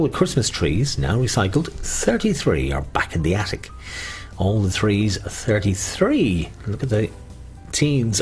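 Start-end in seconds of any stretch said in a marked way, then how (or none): 1.7-6.5 sing-song number calling; bingo caller. Acted. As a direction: call the numbers like a bingo host. Bingo calls on radio.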